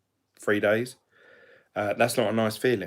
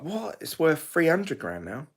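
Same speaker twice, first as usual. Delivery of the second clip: high, astonished "What?"; surprised; 6 semitones higher than usual. Retold or imitated. Reacting to old people's house price, high disbelief. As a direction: jump up in disbelief. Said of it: "And you're like".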